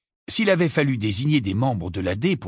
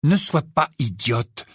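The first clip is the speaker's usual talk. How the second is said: emporté; 4 semitones higher than usual. Acted. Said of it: "s'emporta Harry".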